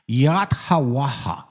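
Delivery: "Yathawaha" slowly as yat-ha-wa-ha; slow, careful demo of "Yathawaha"; closest pronunciation. Shown as a demonstration. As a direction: give "Yathawaha" a clear t and airy final ha. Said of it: "closest way you can say that".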